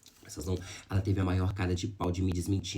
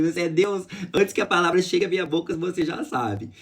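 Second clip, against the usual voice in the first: loud, higher ironic marveling; mock awe; 7 semitones higher, 6 dB louder than usual. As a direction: marvel at them with big irony. Retells ironic awe to the person. (espanto irônico, alto e agudo)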